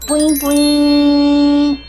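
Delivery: uwu speak. Acted. Cutesy catchphrase to viewers.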